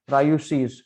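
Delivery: रायुशीष said clearly with sh sounds; teaching a Portuguese word. Shown as a demonstration. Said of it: "पुर्तगाली में एक्सरे नहीं बोलते".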